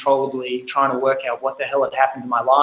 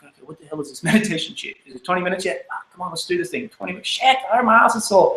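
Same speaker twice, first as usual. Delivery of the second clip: fast, fed-up mock grumble; imitating his bored younger self, ending higher; impatient grumbling; 4 semitones higher, faster than usual. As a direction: complain like a restless kid stuck meditating. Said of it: "I'm like".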